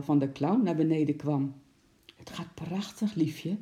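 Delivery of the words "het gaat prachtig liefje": delighted. A narrator's reading. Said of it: "zei moeder opgetogen".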